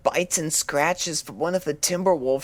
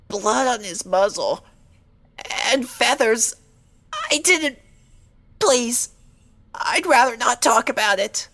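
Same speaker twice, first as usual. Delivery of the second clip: rising panic; 6 semitones higher, 5 dB louder than usual. Acted. Fluttershy panics recalling attack.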